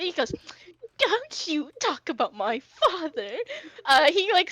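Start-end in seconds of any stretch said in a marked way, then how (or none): 1.0-3.4 slow, higher-pitched indignation; indignant warning. Acted. Prince defending his father's name to a rival, slow indignation. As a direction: stretch the words out as a rising warning. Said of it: "he kinda picks up for a second".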